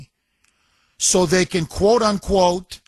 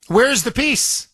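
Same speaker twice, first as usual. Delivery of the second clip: rising disbelief; 6 semitones higher than usual. Real, not acted. Repeats question, pushes it higher.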